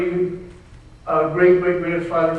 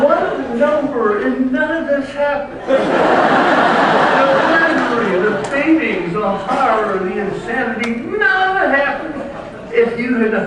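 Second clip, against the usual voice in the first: mock-tragic rant; 7 semitones higher, 4 dB louder than usual. Real, not acted. Comic rant about family misery.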